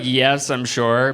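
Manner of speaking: slow, deliberate assurance; hammed-up bravado; mock confident. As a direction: fake certainty, drawn out. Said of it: "And I was like".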